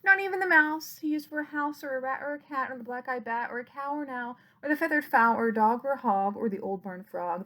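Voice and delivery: lilting, rhythmic picture-book reading; reading to children. A narrator's reading. Reading a bedtime picture book to toddlers, lilting rhyme. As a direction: read the rhyme out to small children. Rhyme read again, faster.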